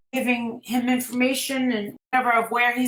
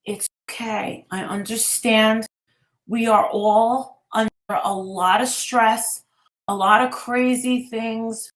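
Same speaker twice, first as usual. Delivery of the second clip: reassuring; 2 semitones lower than usual. Retold or imitated. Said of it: "I touched her shoulders and I said".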